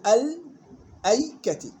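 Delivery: الأيكة begun "al", then "aykati", slowly; starting with hamzat wasl. Shown as a demonstration. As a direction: slowly open الأيكة on a clear "al-". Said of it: "بدك تجيب همزة وصل". (الأيكة بهمزة وصل مفتوحة)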